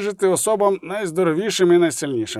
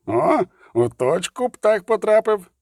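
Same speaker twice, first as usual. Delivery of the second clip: slow, higher-pitched sardonic remark; through clenched teeth; 6 semitones higher than usual. A narrator's reading. Zoltan agreeing with the bird, through clenched teeth. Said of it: "процідив Золтан Хівей".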